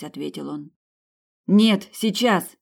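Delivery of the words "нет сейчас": slow, loud, higher order; commanding. A narrator's reading. Sabina ordering Janus to put his helmet on, loud command. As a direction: bark the order word by word. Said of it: "приказала Сабина".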